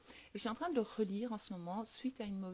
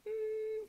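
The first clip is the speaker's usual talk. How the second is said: high, drawn-out hum through sealed lips; muffled crying hum, imitated with the mouth shut; closed-mouth crying; 13 semitones higher than usual. Shown as a demonstration. Daughter showing how she was programmed to cry, closed-mouth whine. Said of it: "comme ça, en fermant la bouche".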